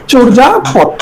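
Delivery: চর্যাপদ said "chor-ja-pod"; a hard j in চর্যাপদ; model pronunciation. Shown as a demonstration. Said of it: "আমরা যখন উচ্চারণ করি". (চর্যাপদে বর্গীয় জ-এর উচ্চারণ)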